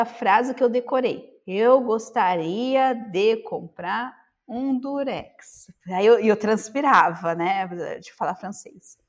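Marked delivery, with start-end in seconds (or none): 1.5-5.7 each word spaced out, very slow; nervous learner pronouncing every syllable; slow and deliberate. Retold or imitated. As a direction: recite the memorized line carefully. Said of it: "bem pausada".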